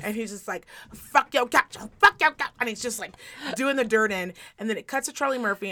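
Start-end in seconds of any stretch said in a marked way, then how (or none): 0.9-2.5 high, loud mock yell imitating a singer; a singer shouting. Comic retelling a sketch, imitating a singer yelling. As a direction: bellow it like Chappelle's impression of a singer. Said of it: Dave Chappelle dressed up as a singer.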